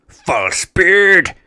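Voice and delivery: high, loud, slow furious yell; furious shout. Acted. Admiral raging at his arch-enemy, furious shout. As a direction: roar the enemy's name in rage.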